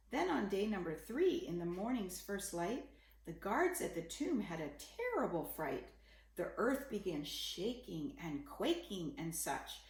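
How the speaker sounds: put-on gentle read-aloud for children; story narration. A narrator's reading. Parent reading a bedtime picture book, gentle storytelling. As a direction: read the rhyming story to a little one.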